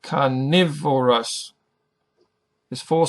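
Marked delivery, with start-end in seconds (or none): 0.0-1.5 Carnivorous said slowly, syllable by syllable; slow syllable demo. Shown as a demonstration. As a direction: stretch out Carnivorous for a learner. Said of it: "the first syllable is the emphasized one".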